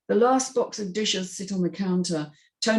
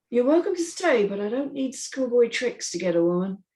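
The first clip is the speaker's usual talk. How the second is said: starts much higher, then a lightly voiced cool put-down; Myron, cool retort; 5 semitones higher than usual. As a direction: brush her off with easy confidence. Myron answers Tony's jab.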